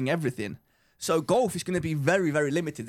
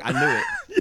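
triumphant cry; 4 dB louder, slower than usual. Retold or imitated. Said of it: "I'm like".

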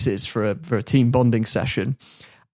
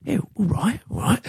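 mock agreement; 7 semitones higher, 5 dB quieter than usual. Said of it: "they're all like".

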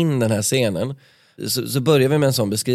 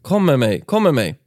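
higher, louder urgent begging; pleading; 4 semitones higher, 4 dB louder than usual. Acted. Sofia begging Carl Philip to come with her, urgent higher plea. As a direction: pull him away with your voice. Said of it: "Hon vädjade till Carl Philip".

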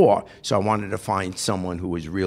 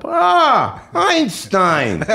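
loud mocking sergeant, higher; drill sergeant voice; 5 dB louder, much slower than usual. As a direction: bark it like a sneering drill sergeant.

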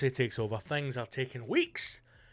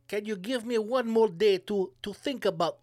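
timid underling; 6 semitones higher than usual. Acted. Hesitant underling asking for time.

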